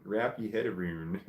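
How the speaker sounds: AROUND said "aroon", Scottish style; Scottish accent. Shown as a demonstration. Reading a chatter's hard accent aloud, attempted Scottish accent. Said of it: "This is a hard accent".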